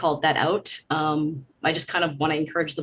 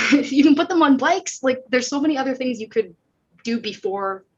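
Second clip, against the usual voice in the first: laughing; 8 semitones higher, 6 dB louder than usual. Real, not acted. Laughing at the idea.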